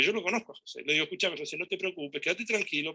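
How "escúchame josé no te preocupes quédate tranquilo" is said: retold soothing, in a softer voice; gently calm him down, lightly acted; soft reassurance. Host tells José not to worry, softly reassuring.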